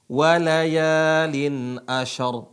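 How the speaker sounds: "Walayalin ashar" drawn out slowly with a heavy r; slow Quran recitation. Shown as a demonstration. Teacher modelling the verse for students, slow and careful. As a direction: stretch "Walayalin" and land hard on "ashar". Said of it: "Contoh yang lain gimana".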